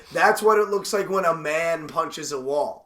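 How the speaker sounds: slow, drawn-out mockery; scoffing disbelief. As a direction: drag it out, unimpressed. Scoffing recap of the shouted line.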